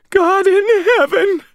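high, slow, tearful exclamation; weeping. A narrator's reading. Landlady thanking rescuer of old couple, weeping. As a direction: cry it out in overwhelmed relief. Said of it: "weeping openly as she put her hand".

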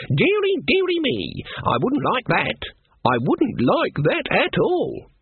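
high, sarcastic mock alarm; mock dismay. A narrator's reading. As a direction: pretend to be frightened, dripping sarcasm. Granny mocks the prison threat.

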